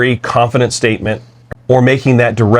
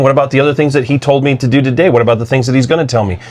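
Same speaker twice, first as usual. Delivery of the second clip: spiralling worry; 4 semitones higher, faster than usual. Retold or imitated. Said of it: "automatically in her goes".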